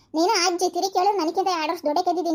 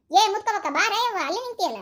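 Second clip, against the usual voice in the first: raised, higher-pitched hail; calling out; 4 semitones higher than usual. Acted. Old woman calling her acquaintance to come over, calling out. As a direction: beckon her over with your voice. Calls the acquaintance standing away.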